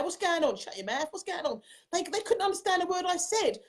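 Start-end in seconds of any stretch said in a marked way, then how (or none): 0.0-1.6 put-on South London accent. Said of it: "when I'd be talking like".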